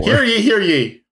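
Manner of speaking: slow, high town crier call; hammed-up town crier proclamation. Mock announcing everyone's present.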